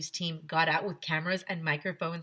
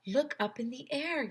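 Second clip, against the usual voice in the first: yelled; 7 semitones higher than usual. Acted. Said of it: "yelled Ryan".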